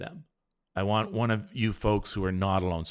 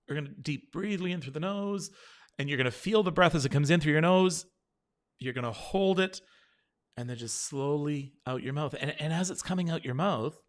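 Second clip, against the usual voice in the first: breathing guidance; 3 semitones higher than usual. Shown as a demonstration. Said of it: "this is what you're gonna do".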